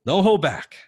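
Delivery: slow, loud and high, insisting; emphatic retort. Retold or imitated. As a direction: lean hard on every word, no holding back. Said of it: "I said".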